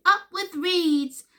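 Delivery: high, loud, drawn-out cheer; hooting. A narrator's reading. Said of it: "And they hooted".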